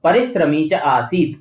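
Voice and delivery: सरलह read slowly with a final breathy ह; slow Sanskrit recitation. Shown as a demonstration. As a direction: recite each word slowly and clearly, like a teacher. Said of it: "ठीक है, इस तरीके से।".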